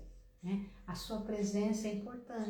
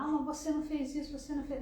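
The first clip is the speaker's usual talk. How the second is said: quick, high accusing jab; wrong accusing way; 5 semitones higher, much faster than usual. Shown as a demonstration. Wrong way to raise a problem with a partner, fast and accusing. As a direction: fire the blame at him fast. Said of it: "Você não vai pegar o problema e falar".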